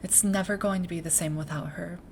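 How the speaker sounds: soft, measured voice with long pauses; reflective academy leader, subdued. Acted. Academy leader reflecting on a missing predecessor, subdued and soft. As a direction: speak quietly and thoughtfully, weighing each thought.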